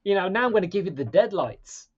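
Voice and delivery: high, loud gloating threat; menacing villain. Retold or imitated. Clown threatening the girl, loud and gloating. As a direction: gloat like a monster toying with prey. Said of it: "He's like".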